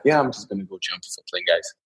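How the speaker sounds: flat, bored, quick and quiet; boring voice. Shown as a demonstration. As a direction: say it like it's nothing special. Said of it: "such a boring voice".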